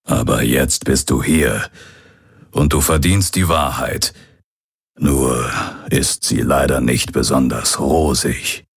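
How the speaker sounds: lightly voiced old pirate, earnest; a hint of a rueful father telling the truth. (leicht angedeuteter alter Pirat, ernst)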